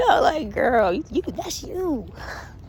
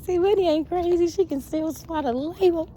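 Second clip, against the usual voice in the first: mock impressed friend; 10 semitones higher than usual. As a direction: play the friend, amused and impressed. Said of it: "he was like".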